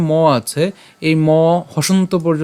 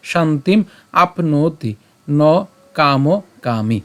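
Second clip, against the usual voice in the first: slow, careful verse; slow recitation; much slower than usual. Shown as a demonstration. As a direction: draw it out slowly. (ধীরে শ্লোক পাঠ)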